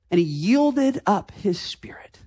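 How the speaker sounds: whispered, reverent reading; hushed whisper. Real, not acted. Preacher reading Jesus's death to the congregation, whispering. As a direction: let it fall to a breath.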